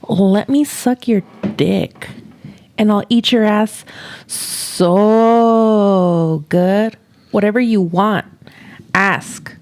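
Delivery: slow, sultry seductive read; sexy voice. Retold or imitated. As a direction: purr it like a lover. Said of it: "thank you for doing a sexy voice".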